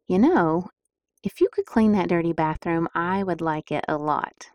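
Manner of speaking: sweet persuasive request; gentle request. Shown as a demonstration. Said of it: "would respond better to".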